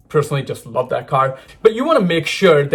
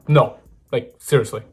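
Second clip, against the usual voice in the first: lower, dead-serious follow-up; deadpan insistence; 4 semitones lower than usual. Real, not acted. Vlogger doubling down on being taken seriously, deadpan. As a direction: drop the pitch and insist on it.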